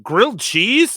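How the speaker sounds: high, rising echo question. Retold or imitated. Repeating a friend's words back as a question, high rising. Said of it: "And I'd be like".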